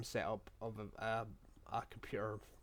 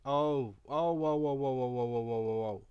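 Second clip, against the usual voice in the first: alarmed whoas; 9 dB louder than usual. Real, not acted. Computer suddenly freezes.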